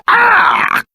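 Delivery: high startled yelp; sudden high "ah"; startled cry. Acted. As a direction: cry out mid-sentence. Breaks off his insult in alarm.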